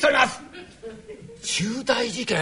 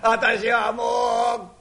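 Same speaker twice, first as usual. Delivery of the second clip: despairing wail; much slower than usual. Acted. Boss despairs over being fired.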